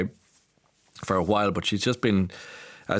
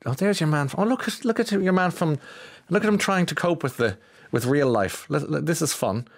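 high, gawking crowd voice mocking him; mocking onlookers; 7 semitones higher than usual.

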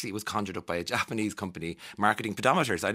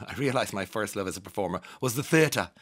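mock-posh reading of a quote; posh accent. Radio host quoting Angelina Jolie on theatre, lightly posh accent. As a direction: give the statement a slight posh accent. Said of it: "I'm giving her a posh accent".

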